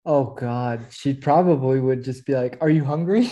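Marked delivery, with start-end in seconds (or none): 2.6-3.2 mom impression. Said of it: "your best mom impersonation".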